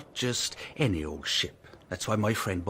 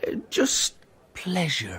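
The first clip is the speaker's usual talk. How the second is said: whisper; 8 semitones higher, slower than usual. Acted. Evasive answer about the job.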